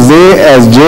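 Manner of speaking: "ze" with z set against "j" as in jay; swapped sounds demonstrated. Shown as a demonstration. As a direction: contrast "ze" and "j" as two swapped sounds. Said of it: "She would always pronounce".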